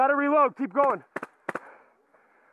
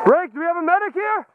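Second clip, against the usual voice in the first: calling out; 2 semitones higher, 5 dB louder than usual. Real, not acted. Calling for a medic.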